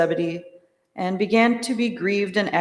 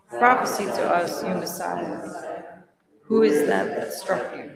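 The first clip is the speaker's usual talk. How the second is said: sneering taunt; lightly voiced mockery; mocking. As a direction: jeer at him. Mockers slapping Jesus.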